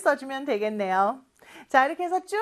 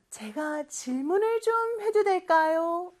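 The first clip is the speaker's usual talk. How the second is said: higher, slow, courteous asking; polite request; 5 semitones higher than usual. Acted. Child asking mom if a question is okay, politely. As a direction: ask permission politely, drawing it out. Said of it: "요렇게 공손하게 물어볼 수 있겠죠".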